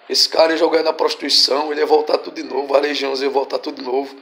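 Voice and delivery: low, softened explanation; subdued aside. Real, not acted. Preacher telling congregation what would have happened, quietly.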